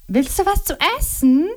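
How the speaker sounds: Liliana, quick and a little curt; a bit gruff. A narrator's reading. Busy wife offering Momo food, a bit gruff. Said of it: "fragte Liliana ein wenig barsch".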